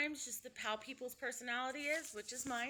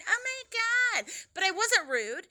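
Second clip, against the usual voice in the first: high, loud, drawn-out alarm; slow, rising dread; oh no, real panic; panicked; 9 semitones higher, 8 dB louder, slower than usual. Real, not acted. Panicking she'll call and complain.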